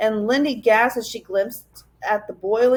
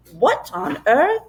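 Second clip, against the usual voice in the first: slow, startled gasp of a question; the professor, seeing danger, startled; 3 semitones higher, slower than usual. A narrator's reading. Professor alarmed.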